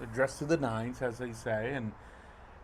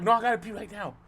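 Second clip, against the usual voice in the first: desperate friend; 9 semitones higher, 4 dB louder, faster than usual. Retold or imitated. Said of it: "she's like".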